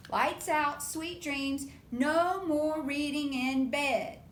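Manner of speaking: loud slow firm mother; firm mama. Acted. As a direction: lay down the rule like a firm mom. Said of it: "What had Mama told them?".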